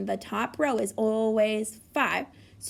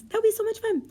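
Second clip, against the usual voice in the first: delighted; 10 semitones higher, faster than usual. Acted. Teacher delighted about puppies.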